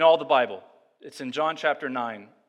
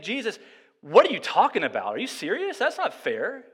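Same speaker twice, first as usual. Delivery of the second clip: indignant objection; 4 semitones higher than usual. Pretend. Imagined objection to Jesus.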